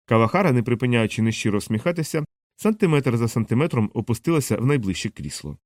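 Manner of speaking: ordinary delivery, nothing marked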